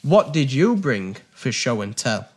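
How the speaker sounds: slow announcer read; game show voice. Acted. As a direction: read it like a TV host. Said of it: "your game show voice".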